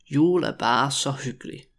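measured, joined-up learner's take; slow demonstration. Shown as a demonstration. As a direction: say it slowly and clearly. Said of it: "when I say it really slowly".

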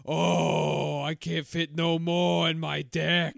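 kvetching Long Island grandma; old grandma voice. Pretend. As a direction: play a complaining grandmother.

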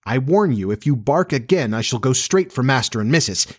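mildly stern scolding; stern warning. Acted. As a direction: warn the dog with a touch of severity. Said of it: "she said sternly".

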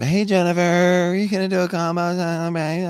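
high, fast mock of his own paparazzo voice; high, quick mocking replay; imitating his pap voice. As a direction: parody the shrill questioning voice from the video. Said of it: "See, I don't sound like that".

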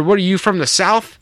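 high-pitched indignant comeback; mock offended. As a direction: toss back a joking, offended question. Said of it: "he got all offended".

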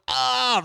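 high mock gasp on looking up; startled cry. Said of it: "looks up and goes".

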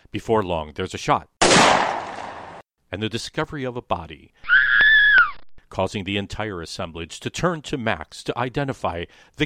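overwrought stagey melodrama announcer; lightly hammed-up old radio narrator; 1940s melodrama voice. Shown as a demonstration. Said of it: "that was my best nineteen forties melodrama voice".

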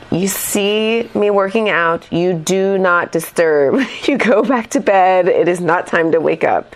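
slow, lightly menacing spirit voice; a hint of an evil spirit, slowed down. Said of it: "this is an evil spirit voice".

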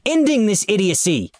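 high, gleeful declaration; cackled words. A narrator's reading. Supervisor burning down the game, gleeful cackling voice. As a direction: announce it high with mad glee. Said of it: "he cackled".

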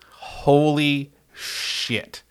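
long, slow, exasperated holy shit; drawn-out holy shit. Real, not acted. Host ranting about good Tennessee fans, slow exasperated drawl. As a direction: stretch holy out in disbelief.

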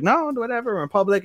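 high-pitched, flustered protest; mock embarrassed. Kelvin fending off two girls in public, embarrassed. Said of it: "Kelvin's all embarrassed and shit".

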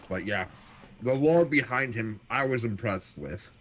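chewing while talking; words round a bite of food; mouth full. Real, not acted. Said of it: "Sorry, I'm eating dinner while we're doing this".

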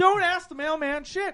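high, loud protest; emphatic mock refusal. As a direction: shout the refusal for comic effect. Acts out his alarmed refusal, repeated.

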